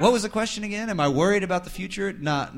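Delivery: high, laughing through the words. Real, not acted. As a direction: still cracking up while asking. Laughing after the hippie joke.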